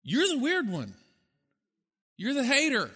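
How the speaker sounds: high, sneering accusing voice; mock accusation. Preacher voicing the country that condemns believers, mock accusing. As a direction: throw the label back, half mocking. Mocking how society labels believers.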